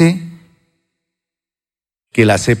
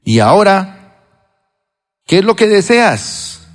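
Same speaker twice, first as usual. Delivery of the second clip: voice of the Lord; 6 semitones higher than usual. Retold or imitated. Voicing the Lord speaking.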